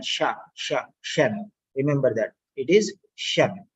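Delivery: Sha and shan with a clear sh; sound drill. Shown as a demonstration. Teacher drilling the correct sound for the student. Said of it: "It is a shan".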